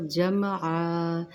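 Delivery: slow recited जमआ with a held vowel; Quran recitation drawl. Shown as a demonstration. Teacher reciting जमआ slowly for her students. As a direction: stretch जमआ out as in tajweed recitation. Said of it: "यहाँ पे वाव के अंदर इदगाम है".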